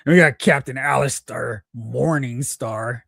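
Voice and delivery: lightly voiced pirate announcer; a hint of a pirate captain. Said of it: "I don't know why I'm doing this pirate voice".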